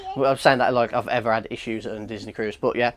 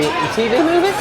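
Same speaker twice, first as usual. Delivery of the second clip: questioning rise; 10 semitones higher, 4 dB louder than usual. Real, not acted. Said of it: "From the movie".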